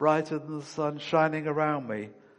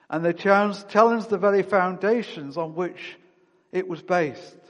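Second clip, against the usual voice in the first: louder, higher preaching climax; rising fervour; 4 semitones higher, 5 dB louder than usual. Real, not acted. Preacher telling how the apostles challenged culture, fervent louder climax. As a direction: lift it up with fervour.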